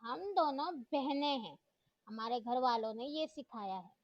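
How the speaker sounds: student snapping at the teacher, lightly frowning; frowning reply. Acted. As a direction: lay each word down with a scowl. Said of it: "हमना ने तेवरी से कहा".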